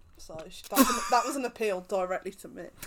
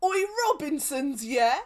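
TikTok guy impression; 7 semitones higher, 5 dB louder than usual. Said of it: "the guy from the TikTok that's like".

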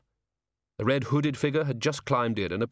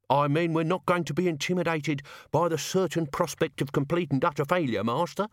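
lightly voiced higher-pitched servant; a touch of rallying loyalty; servant among the sacks; 6 semitones higher than usual. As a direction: chivvy the master along, ending on a rise. Voice from the sacks held.

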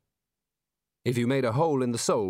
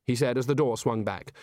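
ordinary delivery, nothing marked

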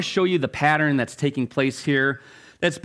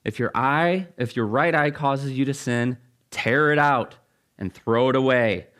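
measured, lower-pitched Bible reading; scripture reading; 3 semitones lower than usual. Acted. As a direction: read the passage out solemnly to the congregation. Reading scripture aloud to congregation.

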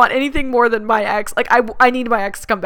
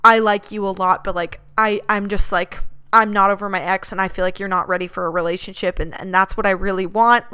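softer, mock-teary letdown; faked teary breakup; 3 semitones lower, 4 dB quieter than usual. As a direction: lay on thick teary sincerity. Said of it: "I start to get teary-eyed again".

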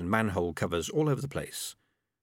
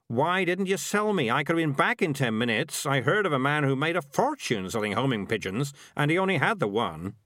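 lightly voiced schemer, pitched up in complaint; a higher, mildly aggrieved character voice; exasperated Morris; 4 semitones higher than usual. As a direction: scold your partner over a missed chance.

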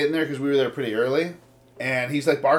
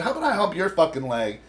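raised, heated retort to a stranger; telling off the dog owner, louder and faster at the end; retold angry threat; 4 semitones higher, 7 dB louder than usual. To the other dog owner, a heated mock threat.

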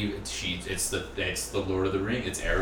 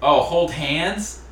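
high, louder, slow and cooing; mock sweet; 6 semitones higher, 7 dB louder, much slower than usual. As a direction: coo it teasingly. Reading profile, mock sweet.

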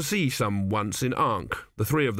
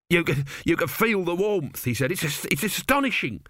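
higher, stammering workman amazed by the stone; a higher voice, tripping over words in wonder; nervous builder voice, lightly raised; excited brother Pataclusp; 6 semitones higher than usual. Acted. 2B marvels at the warm stone.

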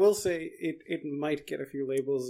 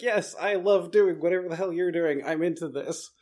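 louder, eager happy dog; happy puppy voice; 3 semitones higher, 6 dB louder than usual. Retold or imitated. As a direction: voice the thrilled puppy. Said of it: "a happy puppy that's just like".

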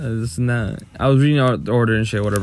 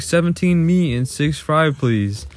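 higher, drawn-out call, not really shouted; retold order call; 5 semitones higher, slower than usual. Worker retelling yelling an order at work, mild mock yell. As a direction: mimic calling an order out, slowly. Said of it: "I yelled it out".

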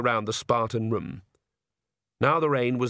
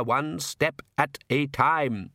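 very slow, word-by-word genial repeat; cheerful, emphatic; 3 semitones higher, much slower than usual. Acted. Count repeats his motto to his daughter, cheerful and measured. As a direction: spell it out cheerfully, each word separate. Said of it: "said the Count cheerfully".

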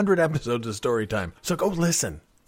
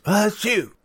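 fake sneeze; 8 semitones higher than usual. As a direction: act out a quick sneeze. Imitating a sneeze mid-story.

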